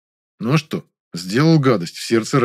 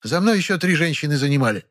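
a firm, higher statement; categorical; 6 semitones higher than usual. Acted. Woman in the queue laying down the order, categorical. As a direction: lay it down with no argument. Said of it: "категорическим голосом".

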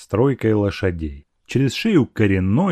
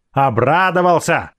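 higher, mildly furious snarl; savage cry; 5 semitones higher than usual. A narrator's reading. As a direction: throw it back at him angrily. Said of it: "зверски закричала она опять". (зверски, но без крика)

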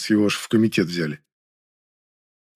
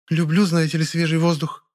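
lightly voiced woman; 7 semitones higher than usual. Muza deflects, in her voice.

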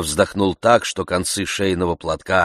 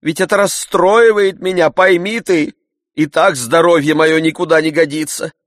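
much higher, louder complaint; aggrieved scolding; 9 semitones higher, 8 dB louder than usual. A narrator's reading. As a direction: wail about your nerves. Master scolding servant.

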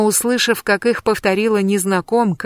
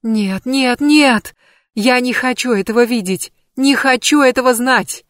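higher, rising anguished outburst; a horrified refusal; distraught cry; 5 semitones higher, 3 dB louder than usual. Acted. Sigyn refuses the vision, anguished crying out. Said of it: "Сигюн по-прежнему плакала".

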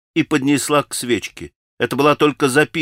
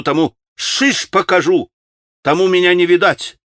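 hysterical shout; 3 semitones higher than usual. Acted. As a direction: throw the words out hysterically. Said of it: "она истерически прокричала". (истерический крик)

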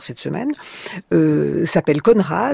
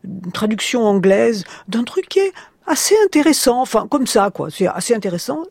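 lightly voiced colleague, higher-pitched at first; Italian publisher; 5 semitones higher than usual. Italian publisher passing on a find at Frankfurt, casually imitated. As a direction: retell a casual tip, starting high. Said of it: "l'éditeur italien ... me dit".

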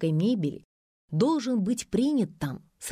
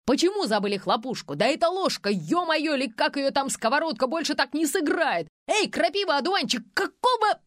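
furious director; 6 semitones higher than usual. A narrator's reading. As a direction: rant at the crew in fury. Director raging.

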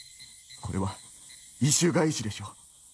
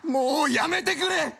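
high, slow cry begging it to stop; a desperate plea dragged out high; anguished outcry; slower than usual. Acted. Man breaks down at the tale.

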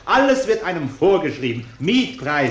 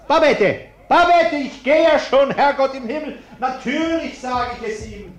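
high, loud exasperated calls; flustered shouting; 8 semitones higher, 4 dB louder than usual. Acted. Husband giving in to his wife, exasperated shout. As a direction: shout after her, giving in.

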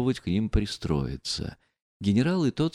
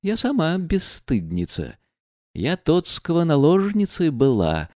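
lightly voiced proud, mocking woman; bitter, taunting the men around her; Nastasya Filippovna; 3 semitones higher than usual. Настасья Филипповна говорит в гостиной. (слегка сыгранная гордая, насмешливая героиня)

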